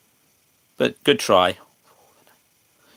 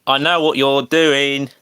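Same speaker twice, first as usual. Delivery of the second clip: indignant protest; 5 semitones higher, 5 dB louder than usual. Real, not acted. Streamer refuses chat's bait word.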